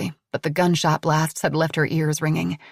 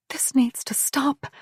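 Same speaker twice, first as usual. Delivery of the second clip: slow, urgent whisper; tense slow whisper; 7 semitones higher, slower than usual. A narrator's reading. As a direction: breathe it under your breath, slowly. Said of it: "Mare heard Camille whisper".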